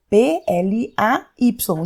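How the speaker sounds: P L A Y spelled out slowly; spelled letter by letter. Shown as a demonstration. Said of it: "verbo play". (soletrando P L A Y devagar)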